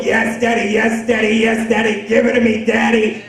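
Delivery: loud, high mimicked cries of passion; hammed-up urgent bedroom cries, high and loud; mock ecstasy. Mimics mother in throes of sex.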